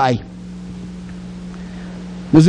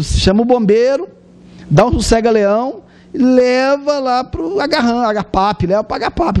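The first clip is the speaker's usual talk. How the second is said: raised-pitch mockery of a madman; high mocking gossip voice calling him crazy; mocking scoffers; 5 semitones higher than usual. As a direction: scoff like the doubting crowd. Crowd mocks Jesus as crazy.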